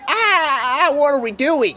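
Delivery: high, loud yelping cry of alarm; panicked cry. Pretend. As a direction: yelp like you're being shot upward. Rising cylinder, panicked cry.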